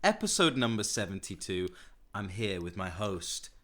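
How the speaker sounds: soft, low soothing host voice; soothing radio voice. Real, not acted. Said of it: "Nice soothing voice there. It went all radio".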